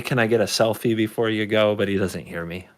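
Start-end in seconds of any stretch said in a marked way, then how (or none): 0.0-1.8 a touch of timidity, lower voice. Acted. Player asks the departing boss for a selfie, mildly timid. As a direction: ask shyly, half hoping not to be heard. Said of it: "I say too timidly".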